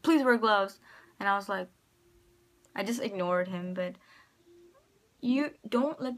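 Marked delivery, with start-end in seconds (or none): 0.0-0.8 a mock call-out across the class, a bit louder; raised voice, calling out to the room; retold shout. Classmate calling out during show and tell, mock shout. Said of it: "a guy shouted out".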